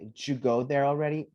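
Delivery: "Did you go there already" with "Did you" cut to "shu"; "Did you go there already" opening on a quick "ju"; contracted question. Shown as a demonstration. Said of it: "Shoot, right?".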